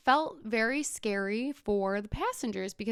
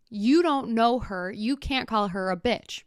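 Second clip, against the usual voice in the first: firm retort; 6 dB louder than usual. Retold or imitated. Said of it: "turns around and she goes".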